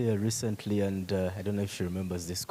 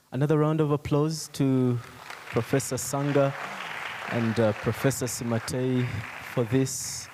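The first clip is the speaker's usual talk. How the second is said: raised announcer-like call for applause; 4 semitones higher than usual. Real, not acted. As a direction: lift the voice to call an audience to applaud. Calling for applause from audience.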